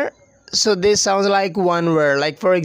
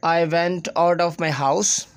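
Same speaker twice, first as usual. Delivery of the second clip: word-by-word Pakistani English; unlinked words in a Pakistani English accent. Shown as a demonstration. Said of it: "as being Pakistani, we will say".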